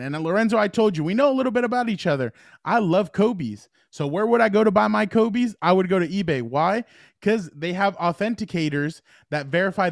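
upbeat sponsor read. Acted. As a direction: read it like a radio ad. Reads eBay sponsor ad.

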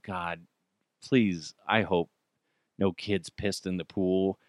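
a hushed inner plea to God; low, soft hoping nobody peed; silent prayer. Retold or imitated. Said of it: "I'm like".

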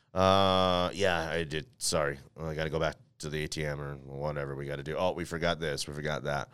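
low, soft mumbled excuse; muted, apologetic reply to the kids; sheepish dad. Retold or imitated. His sheepish reply to the kids, retold.

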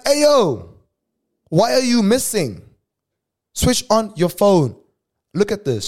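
high, loud alarmed shout at her; high panicked call; panicked yelling. Retold or imitated.

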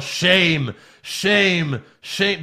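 high, falling one-word chant; mock yell. Host mimics a wrestler scolding the crowd, yelling. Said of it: "And then he yells".

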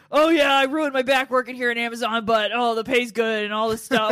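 a hint of a rambling crazy lady; lightly voiced coworker complaining about her back; Tina's crazy talk. Narrator imitates coworker Tina griping about her Amazon job, lightly voiced. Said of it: "she talked like this".

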